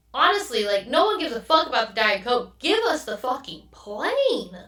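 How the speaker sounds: fed-up outburst, stretching out the final demand; exasperated. Retold or imitated. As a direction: act out a passenger at wit's end. Retelling fed-up passengers' reaction.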